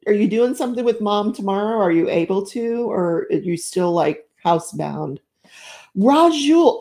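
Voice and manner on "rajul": excited greeting, first call; calling a name. Real, not acted. Spotting a returning chat friend.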